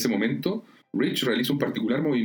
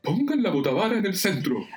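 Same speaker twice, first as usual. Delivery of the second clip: high-pitched captain's command; giving orders; 10 semitones higher than usual. A narrator's reading. Shirley ignoring Pierce and directing the crew, commanding. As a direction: call the order out firmly, pitch raised. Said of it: "sigue dando órdenes".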